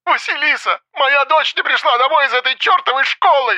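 very high-pitched yelling through a phone; hysterical yelling. A narrator's reading. Mother yells at investigator about missing daughter, hysterical. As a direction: yell it in a frenzy down the line. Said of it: "Свиридова орала так громко".

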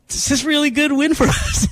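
high, laughing half-sob, imitating himself; mock teary joy. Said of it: "I'm just crying".

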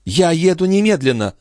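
high-pitched resolve; eager exclamation. A narrator's reading. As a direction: announce it excitedly. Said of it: "воскликнула Шон".

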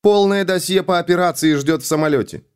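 high voice through helmet radio; inside a space helmet. Acted. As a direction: Kat speaking in his helmet. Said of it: "раздался её голос в шлеме".

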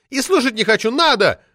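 put-on high, loud indignant shriek of an old party lady; shrill furious official lady yelling; roaring outrage. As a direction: howl it out like an enraged sabre-toothed tigress.

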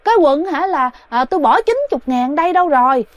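possessed wife yelling in a panic; frantic yelling. Retold or imitated. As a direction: shout around looking for lost pants. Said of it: "la làng lên đó hả".

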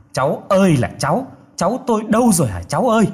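high, hurried lament for a lost grandchild; distressed wailing call. A narrator's reading.

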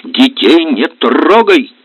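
sharp, loud, slow command; mother snapping to protect her children; cutting off. Acted. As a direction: slam the door on the topic. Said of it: "отрубила Лида".

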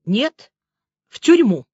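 a touch of weary resignation; resigned, tired admission; hopelessly weary. A narrator's reading. Kostin admitting he is off to prison, wearily hopeless. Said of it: "безнадежно устало произнёс".

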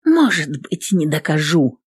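hoarse into the phone. Acted. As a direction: rasp it out, hoarse voice. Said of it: "хрипло говорю в трубку".

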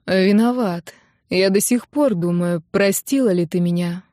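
ordinary delivery, nothing marked

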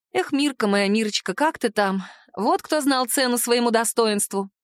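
plain reading voice

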